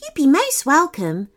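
high, welcoming fairy voice; warm smile. A narrator's reading. Fairy welcoming a new friend to the hunt, warm smile. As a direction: welcome them through a smile. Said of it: "with a warm smile".

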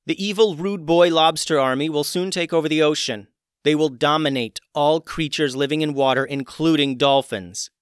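loud, high urgent warning; urgent pleading. Acted. Evie urgently warns dolphin court.

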